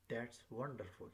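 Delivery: "wonderful" gliding down to its end; falling exclamation. Shown as a demonstration. Teacher demonstrating an exclamation to learners, falling intonation. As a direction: let the pitch drop through "wonderful". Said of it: "falling down".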